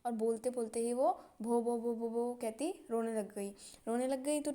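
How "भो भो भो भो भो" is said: repeated stuck syllable, mimicking a stutter; imitated stammer. Girl too stuck to say her name, imitated stammer. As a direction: stammer out a name's first syllable. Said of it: "हकलाती है, बोल नहीं पा रही थी".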